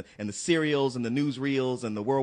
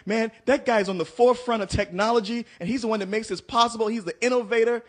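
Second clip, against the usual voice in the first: mocking fanboy; 8 semitones higher, 4 dB louder than usual. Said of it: "they always quick to say".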